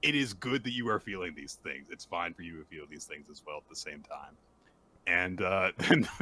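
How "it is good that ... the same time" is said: low, softening reassurance; supportive. Retold or imitated. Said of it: "very sweet and supportive".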